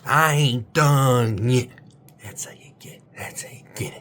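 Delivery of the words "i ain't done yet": slow, loud, stretched defiance; defiant shout. Shown as a demonstration. Coach making viewers shout their defiant motto. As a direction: roar it out slowly. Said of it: "Say it".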